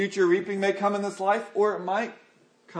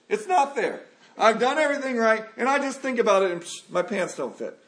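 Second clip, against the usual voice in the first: raised-pitch exasperated grumble; mock frustrated whine; 5 semitones higher than usual. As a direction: whine it like a fed-up dieter. Dieter complaining about weight gain.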